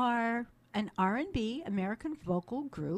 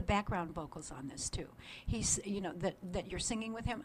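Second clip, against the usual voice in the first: whispering; 2 semitones lower, 6 dB quieter than usual. Real, not acted. Whispered aside about background vocals.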